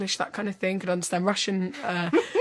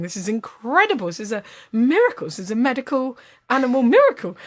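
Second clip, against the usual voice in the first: amazed; 3 semitones higher, 5 dB louder than usual. Acted. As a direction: marvel at it, rising toward the end. Man marvels at talking-cat sign.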